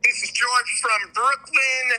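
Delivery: put-on heavy Italian accent on Brooklyn; slow, ham it up in an Italian accent. Guest reads the intro in a heavy Italian accent. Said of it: "Super heavy Italian accent".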